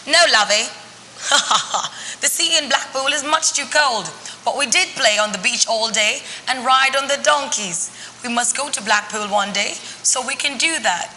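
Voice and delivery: put-on light Yorkshire accent with a laugh; cosy Yorkshire granny, gently voiced; a hint of a Barnsley granny; Granny Rose. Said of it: "did you hear the difference in my accent".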